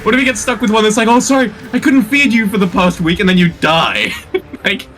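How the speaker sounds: fast, worked-up ranting; wild unhinged ranting. Real, not acted. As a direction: rant like it's the end of the world. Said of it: "That was a beautiful rant".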